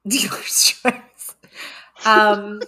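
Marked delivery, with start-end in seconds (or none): 0.1-1.4 put-on very slow, drawn-out British accent. Theater major asked for British accent, hesitant British accent. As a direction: try out a stretched British accent.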